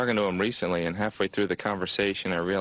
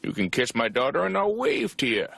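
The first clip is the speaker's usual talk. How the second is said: higher-pitched small-town friendliness; overfriendly local; 6 semitones higher than usual. Acted. Local offers his daughter to a traveler, overfriendly. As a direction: put on an eager rural host.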